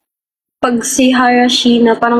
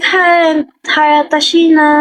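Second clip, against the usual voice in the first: slow, sing-song introduction; mock self-introduction; 5 semitones higher than usual. Shown as a demonstration. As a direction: say it like meeting someone new. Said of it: "ay, like". (dahan-dahang pagpapakilala)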